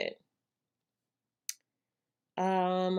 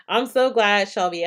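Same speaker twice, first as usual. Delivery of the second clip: delighted; 7 dB louder than usual. Real, not acted. Thrilled by viewer's comment.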